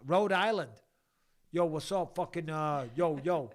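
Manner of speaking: loud mock East Coast American; American accent. Host greeting Rhode Island, in a loud mock American accent.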